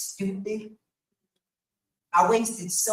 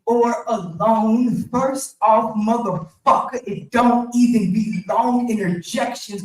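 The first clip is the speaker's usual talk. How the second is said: angry; 5 dB louder than usual. Real, not acted. Angry rant about ex.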